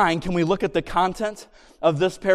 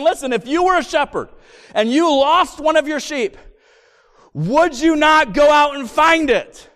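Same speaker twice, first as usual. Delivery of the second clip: pleading shout; 5 semitones higher than usual. Acted. Preacher voicing Jesus' appeal.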